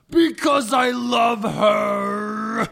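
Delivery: very slow, loud, crying declaration; hammed-up sobbing love confession; tearful confession. Hagrid tearfully confessing his love.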